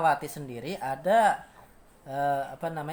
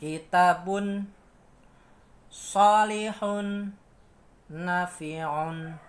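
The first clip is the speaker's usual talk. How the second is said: three words on a flat, rising, falling tune; flat, rise, fall tune; 2 semitones higher, 4 dB louder, much slower than usual. Shown as a demonstration. Teacher shows the three-note pattern, slow and melodic.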